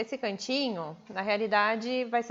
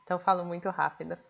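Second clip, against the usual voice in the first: rattling it off at speed; fast talker; faster than usual. Real, not acted. Streamer admits to viewers she talks too fast, rapid. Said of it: "sou muito acelerada".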